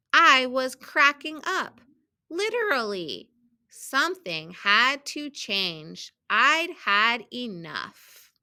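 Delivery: measured storybook reading with stressed key words; children's story read-aloud. A narrator's reading. Teacher reading a picture book to students, storybook read-aloud. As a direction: read it out carefully for young readers.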